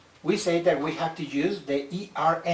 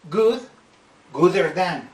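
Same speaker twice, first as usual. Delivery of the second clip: wrong form; 5 dB louder than usual. Shown as a demonstration. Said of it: "That is a terrible mistake".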